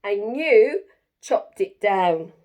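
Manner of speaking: loud, slow accusing shriek; shrieking bird. Acted. Bird accuses Jim of chopping its nest down, slow loud shriek. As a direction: drag out the blame, loudly. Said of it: "shrieked the bird".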